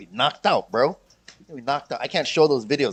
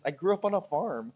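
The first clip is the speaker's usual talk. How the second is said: lightly imitated meme line, a little higher; Kim Chiu; 4 semitones higher than usual. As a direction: quote it in a slightly put-on higher voice. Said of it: "it's Kim Chiu and she's wearing glasses and she's".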